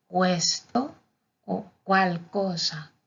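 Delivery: "questo" with a kw sound, kwesto; "cual cosa" slowly as kwal-koza; Italian qu sound. Shown as a demonstration. Teacher showing Q before U in words, deliberate demo. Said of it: "su pronunciación sería en las palabras".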